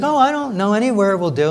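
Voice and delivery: put-on high, light little-girl voice for Alice; girlish Alice voice. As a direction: play a carefree young girl who doesn't care where she goes. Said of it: "she's like".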